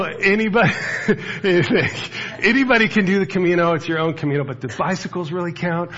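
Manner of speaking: high, loud mocking cyclist voice with a laugh; mocking bicyclists. Pastor mocking cyclists on the Camino, high and loud. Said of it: "they go".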